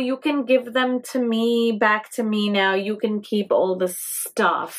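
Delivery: unctuous, ingratiating king's voice; smarmy and slick, buttering him up; oily voice. Acted. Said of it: "I'm reading it in this very unctuous and oily voice".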